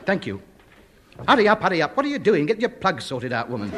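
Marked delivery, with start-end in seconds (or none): 1.3-3.7 impatient. Acted. Impatient with slow phone operator.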